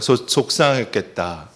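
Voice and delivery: "속상했겠다" repeated at a normal pace, gently; group repeat of "속상했겠다"; repeated with audience. Shown as a demonstration. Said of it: "다 같이 한번 따라해 보세요". (다 같이 따라 하는 "속상했겠다")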